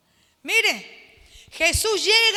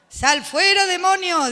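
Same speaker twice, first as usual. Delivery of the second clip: commanding rebuke; 5 dB louder than usual. Shown as a demonstration. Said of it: "dígale usted".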